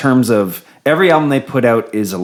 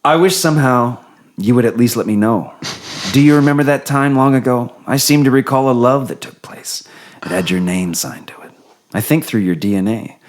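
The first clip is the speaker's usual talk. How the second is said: Pillow Talk voice. Acted. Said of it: "do we do the Pillow Talk voice".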